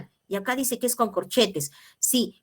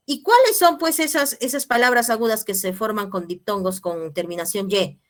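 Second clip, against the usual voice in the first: voiced student question; 3 dB louder than usual. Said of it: "alguien me preguntará y me dirá".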